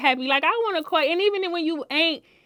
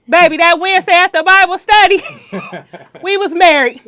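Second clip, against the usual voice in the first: excited; 5 semitones higher, 12 dB louder than usual. Real, not acted. Excited retelling of wedding.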